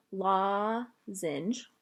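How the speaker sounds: lozenge said slowly and carefully after a stumble; careful pronunciation. Real, not acted. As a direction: sound out lozenge with care. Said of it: "that's a hard word".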